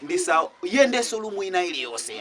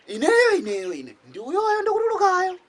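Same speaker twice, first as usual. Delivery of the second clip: high, loud lunatic reveal; squeaky madman voice; 7 semitones higher, 5 dB louder, slower than usual. Acted.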